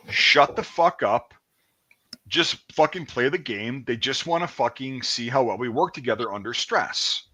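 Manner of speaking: imitating himself scolding the others; retold loud outburst. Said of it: "I said that very loudly".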